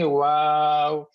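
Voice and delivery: "واو" said as a drawn-out English wow; long English-style "واو". Shown as a demonstration. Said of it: "English میں اگر دیکھنا ہو".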